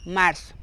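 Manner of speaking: MARZO with an s for the z; cedilla as S. Shown as a demonstration. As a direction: say "marzo" as "marso". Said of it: "se pronuncia como una S".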